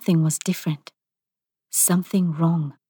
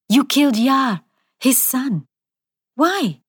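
higher, strained cry rising to the question; anguished demand; 6 semitones higher than usual. A narrator's reading. Widow confronting the spirit over the murders, anguished. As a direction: demand it on the edge of tears.

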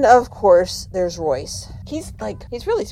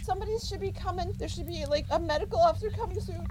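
quick hushed reassuring words; calm him under your breath; soft reassurance; 7 semitones higher, 8 dB quieter, much faster than usual. Acted. Soothing injured crewmate.

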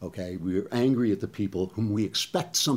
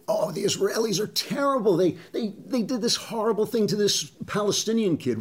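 mock critic; 10 semitones higher than usual. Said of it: "where they say".

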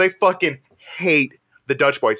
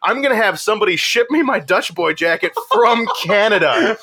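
animated, pitched-up imitation of a boast; retold defiant vow; 4 semitones higher than usual. Dutch Boy member vows to confuse everybody, mock defiance. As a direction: build the plan towards its punchline. Acts the man's vengeful plan.

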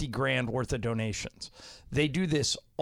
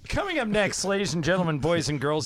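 grand entrance announcement; faster than usual. Acted. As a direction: announce it like a ringmaster. Host announcing the next segment.

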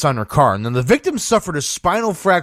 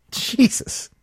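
breathless whispered exasperation; whispered jesus; 9 semitones higher, 4 dB quieter than usual. Real, not acted. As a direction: breathe it out in disbelief. Disbelieving aside.

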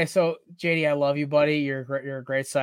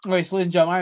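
yawning; 3 semitones higher, 6 dB louder, much faster than usual. Real, not acted. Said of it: "I'm sorry I'm yawning on camera".

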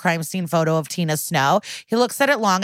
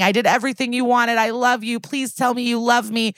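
higher, pleading mock scream at normal volume; raised-pitch retelling of a screamed plea; mock desperate screaming; 4 semitones higher than usual. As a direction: act out a desperate plea without really screaming. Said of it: "And she's screaming".

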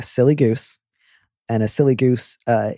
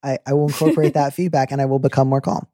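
mock sarcastic compliance. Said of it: "It's like".

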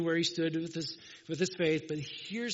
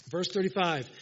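repeated with more force; louder restatement; 3 dB louder than usual. Real, not acted. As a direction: say it again to grab the church.

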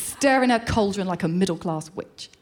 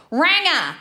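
Australian accent, higher pitched; 5 semitones higher, 3 dB louder than usual. Shown as a demonstration. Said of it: "say it in the accent".

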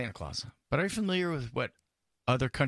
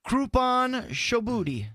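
hammed-up quiz reading; 9 semitones higher, 4 dB louder, slower than usual. Quiz options read out.

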